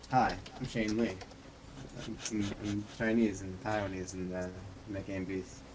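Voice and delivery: Shane Lee impression. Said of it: "here's my impression of, uh, of Shane Lee".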